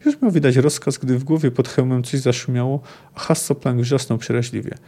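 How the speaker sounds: expressive book reading, voicing the dialogue; reading a novel aloud. Lecturer reading a Sapkowski quote to listeners, in storyteller narration. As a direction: read the passage like a storyteller. Reads chapter seven passage.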